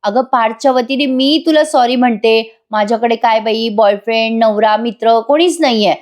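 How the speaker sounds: lightly acted sweet-talk laced with taunts; sweet taunting. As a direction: imitate sugary coaxing with a dig. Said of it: "गोड गोड पण बोलते आणि काव्याला taunt पण मारते".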